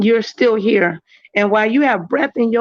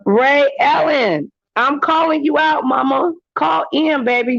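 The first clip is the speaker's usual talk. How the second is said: calling out; 5 semitones higher than usual. Real, not acted. Calling out a viewer by name.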